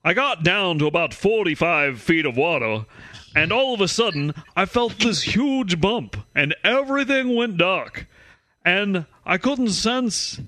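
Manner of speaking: put-on Massachusetts accent read, half-hearted; attempted Massachusetts accent. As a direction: try a Massachusetts accent and miss. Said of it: "that sounded like someone who lived in a very landlocked place".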